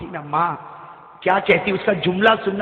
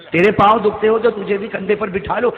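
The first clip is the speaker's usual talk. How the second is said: projected offer; 2 semitones higher, 6 dB louder than usual. Acted. Preacher repeating the offer to carry the old mother, projected. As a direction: offer declaimed out to the crowd.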